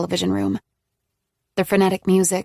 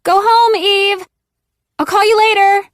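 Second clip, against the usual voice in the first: loud, much higher, strained call; unnaturally high; 13 semitones higher, 8 dB louder than usual. A narrator's reading. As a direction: shoo her away with forced cheer. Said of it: "her voice unnaturally high".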